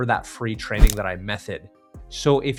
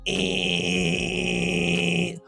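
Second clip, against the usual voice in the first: fuzzy buzzer; 7 semitones higher than usual. Shown as a demonstration. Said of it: "I don't want you to hear any fuzz behind it".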